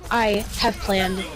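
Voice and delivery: booming arrogant overlord, lightly voiced; a hint of a menacing villain; dark deep voice. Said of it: "says in a dark, deep voice".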